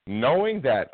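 a knowing, pointed "Knowing that"; loaded phrase. Real, not acted. Host sets up his point on race, knowing tone. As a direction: lean hard on "Knowing that" like it says it all. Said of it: "I heard you in that one word".

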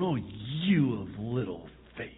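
"Oh, you of little faith." ground out through clenched teeth; angry through clenched teeth. Shown as a demonstration. The wrong way to picture Jesus speaking to Peter, angry through teeth. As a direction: snap "Oh, you of little faith." as a harsh scolding. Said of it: "with clenched teeth, with an angry tone".

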